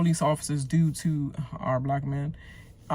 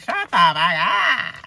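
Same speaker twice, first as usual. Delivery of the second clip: exasperated snap; 4 semitones higher, 6 dB louder, slower than usual. Real, not acted. Annoyed at repeated phrase.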